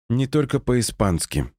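slow, level monotone reply. Acted. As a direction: say it slowly with no expression. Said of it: "монотонно ответила Люсинда".

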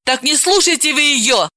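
irritated, insistent woman; getting angry. Acted. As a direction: scold him, mildly angry. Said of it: "рассердилась Далила".

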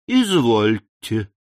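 slow, weighty handing-over; ceremonious. A narrator's reading. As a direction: lay it down deliberately. Tom hands over the letter. (медленно, с расстановкой)

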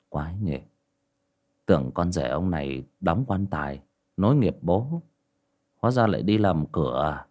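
put-on a drunk man muttering at the gate; muttering to himself. A narrator's reading. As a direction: mumble it half to yourself, a little drunk. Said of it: "lẩm bẩm".

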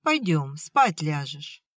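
calm, soothing plea to a father; gently calm him down; peaceable. Acted. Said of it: "миролюбиво произнёс Степан".

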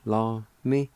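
Jerusalem in measured Cherokee syllables, "ji-lu-si-la-mi"; slowly joined syllables. Shown as a demonstration. Teacher repeating the pronunciation for learners, Jerusalem in slowly joined syllables. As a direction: sound out Jerusalem slowly with small gaps. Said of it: "It's pronounced like this".

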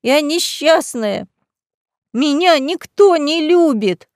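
high, slow wailing lament; desperate sobbing. A narrator's reading. Drunk lady wailing into the viscount's chest. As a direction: sob it out, drunk and pitiful. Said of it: "отчаянно зарыдала".

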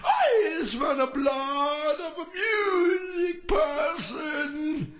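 high, slow hammed-up sobbing monster; mock wail. Vlogger mocks rivals as a weeping ogre, hammed-up wail. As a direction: wail it like a weepy ogre sniffing blood.

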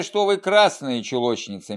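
a light, mild quip with красные stressed; gentle joke. Acted. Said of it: "мягко отшутился Савенков".

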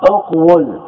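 اقول pronounced uq-wul, consonantal w; underlying form. Shown as a demonstration. Teacher giving the original of the verb, uq-wul sounded out. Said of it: "هذا الأصل".

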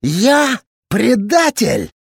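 slow, rasped disbelief; hoarse rasp. A narrator's reading. Captain rasping back at the accuser, hoarse. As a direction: croak it out, stung. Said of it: "прохрипел Кибирёв".

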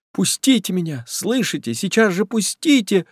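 high, frantic plea to be let go; woman struggling in his grip, crying out high. A narrator's reading. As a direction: fight him off with your voice. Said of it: "крикнула Зинаида Павловна".

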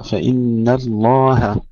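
فإن الله with thin ن and ه, slow; thin nun and ha. Shown as a demonstration. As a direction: say فإن الله slowly, light ن. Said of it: "ترقيق النون والهاء".

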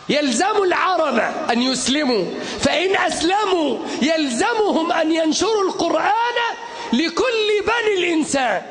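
fiery shouted sermon; soapbox orator. Acted. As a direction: preach it with full force to a crowd.

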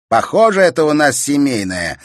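loud, high comeback; retort. A narrator's reading. Brother firing back at his sister, cutting. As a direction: pay her back. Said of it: "не остался в долгу Игорь".

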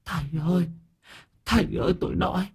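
high, quick panicked ghost begging; whining plea. A narrator's reading. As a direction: squeal it out like a terrified spirit. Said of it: "kêu phè phè van xin".

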